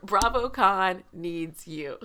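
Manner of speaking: slow, weighty BravoCon needs you; solemn quote. Shown as a demonstration. Quoting her sister's grave encouragement: slow solemn. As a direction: deliver it like a rallying call. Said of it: "That's a word".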